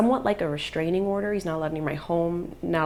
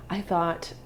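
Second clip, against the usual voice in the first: whisper. Real, not acted. Trailing off, voice drops.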